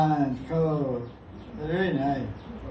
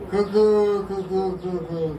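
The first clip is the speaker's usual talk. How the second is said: cuckoo call. Shown as a demonstration. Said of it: "Cuckoo bird".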